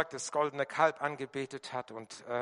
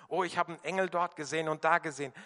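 mocking; much faster than usual. Mocking esoteric angel talk.

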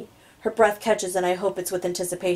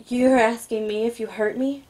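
put-on incredulous young woman; 4 semitones higher than usual. A narrator's reading. Heroine incredulous, higher voice.

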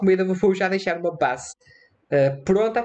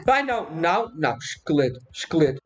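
ordinary talk

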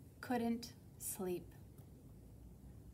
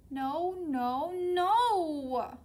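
loud, high yell climbing to the last word; a child's insistent refusal, building louder and higher; 7 semitones higher, 9 dB louder, much slower than usual. A narrator's reading. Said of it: "yelled Flora".

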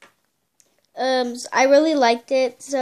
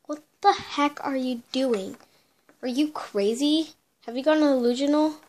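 incredulous; 3 dB quieter than usual. Acted. Friends see her acting weird.

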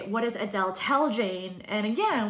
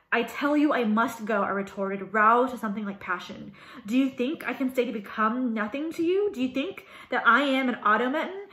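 dramatic reading aloud. Acted. Reads passage from novel.

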